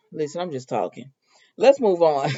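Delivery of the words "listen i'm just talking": hushed whisper, backing off; whispered aside. Real, not acted. Vlogger whispers to viewers she's just talking. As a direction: whisper it like a confession.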